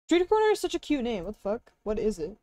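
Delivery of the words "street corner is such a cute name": high fast cutesy gush; cute anime streamer. Real, not acted. Cute squeal over store name.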